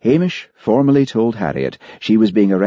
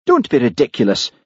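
mildly waspish retort; 6 semitones higher than usual. A narrator's reading. Minister objects to Hamish being sent away, mildly waspish. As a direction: snap it a little, testily. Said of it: "said Peter waspishly".

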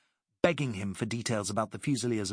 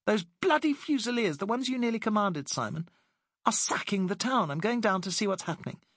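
much higher, indignant woman's voice; outraged Alice; 10 semitones higher than usual. Acted. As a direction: let her fury at the looting spill out. Alice outraged at sacking town.

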